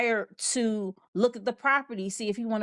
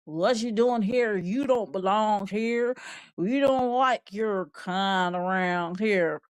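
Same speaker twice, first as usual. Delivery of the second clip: slow, lightly voiced unwelcoming neighbor; mock hostile local; slower than usual. A hint of a hostile neighbor confronting a stranger at the condos. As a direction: put on a mild suspicious "you don't belong" voice. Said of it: "you made it seem like".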